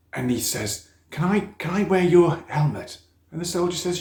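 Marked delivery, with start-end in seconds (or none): 1.1-3.0 put-on high, eager little boy; child's voice. A narrator's reading. Boy asking the soldier for his helmet, high and eager. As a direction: ask like an excited young boy.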